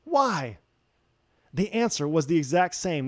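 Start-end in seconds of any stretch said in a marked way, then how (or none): 0.0-0.6 mock disbelief, rising on why; shocked. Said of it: "were shocked".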